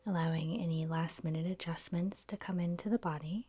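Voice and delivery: soft, unhurried yoga nidra guidance; guided meditation. Real, not acted. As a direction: gently lead them into stillness, pausing between phrases.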